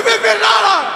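very high, loud yell. Retold or imitated. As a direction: scream it at the woman on the crossing. Repeated yell at woman. (krzyk do kobiety na pasach)

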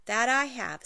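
a hint of a crafty leprechaun; grinning leprechaun. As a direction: gloat like a pleased little trickster. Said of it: "with a grin".

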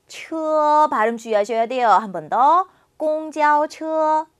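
sentence read very slowly for students to repeat; slow, clear drill sentence for the class; slow model reading. Shown as a demonstration. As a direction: read it word by word like a language teacher.

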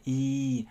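Y held as a long "ee"; long Y sound. Shown as a demonstration. Teacher recalling the earlier EA rule, Y held long. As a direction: stretch Y into a sustained "ee". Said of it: "trở thành âm Y dài".

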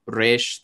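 "resh" with R rolled on the tongue tip. Shown as a demonstration. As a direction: trill the R at the start of "resh" at the front of the mouth. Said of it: "rolling their tongue either at the tip".

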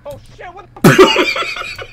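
slow, loud drawn-out yell of fright; startled scream. Real, not acted. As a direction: scream in real shock. Jump scare in the truck.

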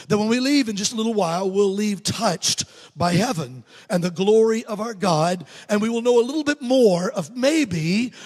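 earnest, emphatic public prayer; congregational prayer. Real, not acted. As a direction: lead the church in prayer with measured emphasis.

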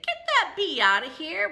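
loud, high mock order from mom; alarmed mom. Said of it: "Would she say".

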